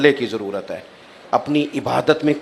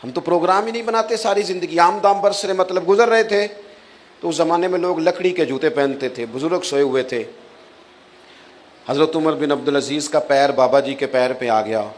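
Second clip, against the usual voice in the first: usual speaking voice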